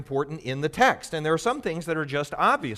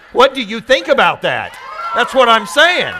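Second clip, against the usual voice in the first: 1 laughing tease; 9 semitones higher, 12 dB louder than usual. Real, not acted. Teasing class about groan.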